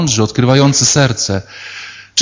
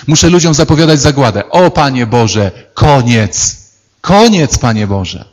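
mock exasperation. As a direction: vent frustration, then give up. Jeremiah rants at God. (udawane zniecierpliwienie Jeremiasza)

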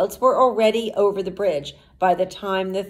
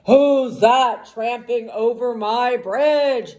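slow, louder troll voice; hammed-up troll, slowed and loud; mild troll roar; 3 semitones higher, 5 dB louder than usual. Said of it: "roared the troll".

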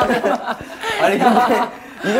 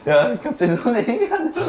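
being tickled; 4 semitones higher than usual. Real, not acted. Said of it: "간지럼 잘 타가지고 이런 거 못 참네".

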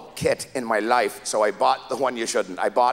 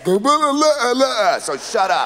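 very slow, loud, higher; slow mock retort; 9 semitones higher, 4 dB louder, much slower than usual. Husband retorting to his wife, slow loud drawl. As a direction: drag it out. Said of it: "Then he says".

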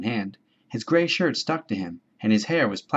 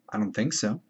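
solemn; 4 dB quieter than usual. Acted. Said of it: "said this solemnly".

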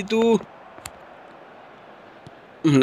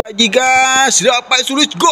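goal shout; 5 semitones higher than usual. Real, not acted.

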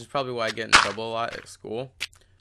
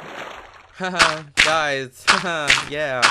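Tobuscus laugh; 3 semitones higher, much slower than usual. Retold or imitated. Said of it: "if you watch Tobuscus".

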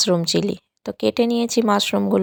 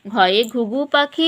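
slow sing-song recital; 3 semitones higher, much slower than usual. Shown as a demonstration. Mother drilling alphabet rhyme.

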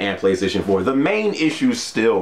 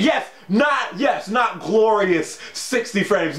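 high, drawn-out exclaiming; theatrical high-pitched protest; mock outrage; 11 semitones higher, slower than usual. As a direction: cry it out high with hammed-up grandeur. Mock outcry over the frame rate.

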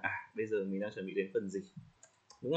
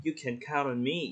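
trustworthy, sincere; 3 semitones higher than usual. Shown as a demonstration. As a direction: say "You can count on me" warmly, rising on "me". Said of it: "nghe nó rất là tin tưởng ấy". (giọng chân thành, đáng tin cậy)

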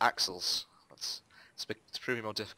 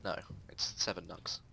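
whisper; 3 semitones lower, 6 dB quieter than usual. Real, not acted. Correcting the recipe, whispered.

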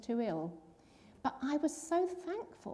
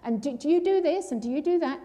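tumbling eager questions, louder; excited; 3 semitones higher, 6 dB louder than usual. Retold or imitated. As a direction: stumble over questions in excitement. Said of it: "he got quite excited".

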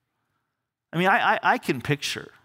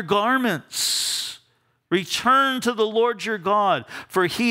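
scripture reading. Real, not acted. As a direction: read it weighty and measured. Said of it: "says this".

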